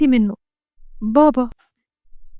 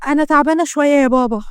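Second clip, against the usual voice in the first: mildly put-on weary voice; feigned tiredness. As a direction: pretend to be a little worn out. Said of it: "وهي بتمثل التعب".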